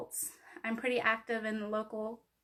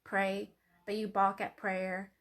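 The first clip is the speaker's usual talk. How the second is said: poetry reading. Acted. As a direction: read it like a spoken-word poem. Reads her poem aloud.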